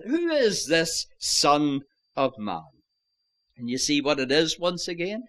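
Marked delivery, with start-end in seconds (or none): 0.0-2.6 "this" held slightly before "Son of Man"; weight the word "this" in the question; stress on THIS. Shown as a demonstration. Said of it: "place the emphasis on that word".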